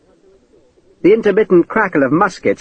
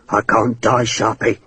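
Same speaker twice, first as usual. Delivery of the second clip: pleading; 3 semitones lower, slower than usual. Acted. Hakeswill pleads with Sharp at sword point, lightly voiced plea. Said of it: "Hakeswill pleaded".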